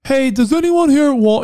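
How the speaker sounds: slow-sounding guy. Retold or imitated. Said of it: "he sounds slow".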